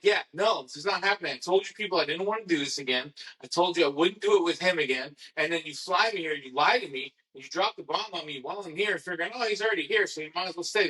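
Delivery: a mild mock tirade at the producers; retold rant. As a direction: vent at them like you did then.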